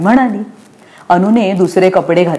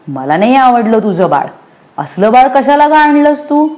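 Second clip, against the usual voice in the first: put-on indignant child; 6 semitones higher than usual. A narrator's reading.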